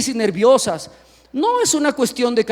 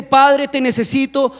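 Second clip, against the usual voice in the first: humble prayer. Acted. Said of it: "Esa oración".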